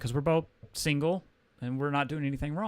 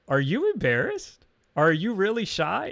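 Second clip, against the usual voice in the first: higher, louder playful questions; imitating giggly teasing; 7 semitones higher, 6 dB louder than usual. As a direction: tease like the waitress, pitched up. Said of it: "she giggles and she's like".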